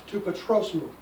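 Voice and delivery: "To patros mu" joined in one phrase; said together. Shown as a demonstration. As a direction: attach "mu" to "patros" without its own stress. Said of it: "Those are together".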